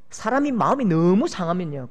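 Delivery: usual speaking voice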